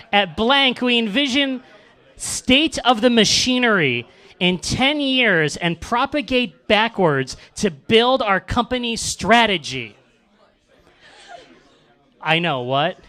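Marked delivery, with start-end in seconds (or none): 0.1-10.0 slow, higher-pitched British reading; drawn-out put-on British voice; mock British accent. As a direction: read it out in a hammed-up British accent. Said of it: "read this with a British accent".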